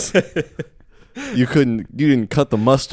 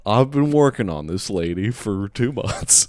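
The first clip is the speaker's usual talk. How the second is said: put-on mid-Atlantic accent. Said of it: "You slipped into a mid-Atlantic accent there".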